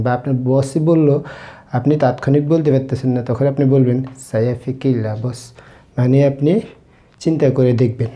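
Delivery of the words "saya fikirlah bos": slow demo. Shown as a demonstration. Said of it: "teacher demonstrating Malay phrase".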